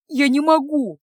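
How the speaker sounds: high, loud outburst of protest; almost yell it in despair; nearly shouting. A narrator's reading. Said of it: "едва не выкрикнул Илья". (почти кричит, с отчаянием)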